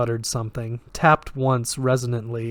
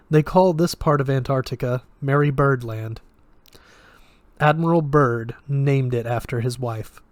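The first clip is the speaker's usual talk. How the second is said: put-on flat, lightly Russian-accented voice; detached, with a hint of Russian; slight Russian accent; 3 dB louder than usual. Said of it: "oddly flat, with a slight Russian accent".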